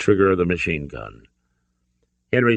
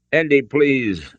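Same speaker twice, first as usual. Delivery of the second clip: higher, drawn-out frightened plea; pleading; 7 semitones higher, slower than usual. A narrator's reading. Hostage to Indy at gunpoint, fearful pleading. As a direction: beg him slowly, in fear. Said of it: "Elsa pleaded".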